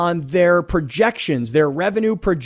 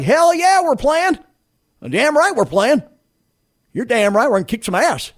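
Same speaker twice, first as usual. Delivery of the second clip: gung-ho fan; 6 semitones higher than usual. Retold or imitated. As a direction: pump it up like a rowdy Alabama fan. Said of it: "they're like".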